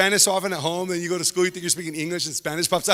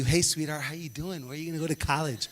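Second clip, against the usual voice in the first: overly sweet counselor; 4 dB quieter than usual. Retold or imitated. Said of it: "trying to love you a little too much".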